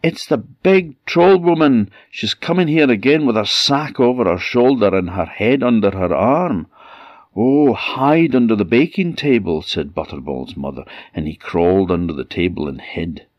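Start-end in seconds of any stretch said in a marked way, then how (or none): 0.0-6.7 very high, loud panicked cry for mother; boy fleeing the troll in panic; terrified child. Acted. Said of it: "terrified, and said". 7.3-9.6 high hurried hushed urgency; mother hiding her boy in alarm; urgent mother. Acted. Mother urgently hides her son.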